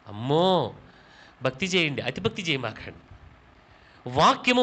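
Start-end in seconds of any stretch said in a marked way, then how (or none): 0.1-3.1 a hint of a scoffing churchgoer, low and soft; mocking doubter. Pastor mimics a church member dismissing him, mocking and hushed. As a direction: mutter it like a sceptic tutting. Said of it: "మీరేమంటారు తెలుసా".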